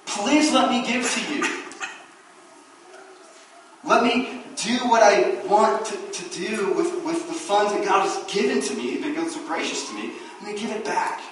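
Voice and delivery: mildly acted eager plea to give; believer begging to give. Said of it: "how we ought to be acting".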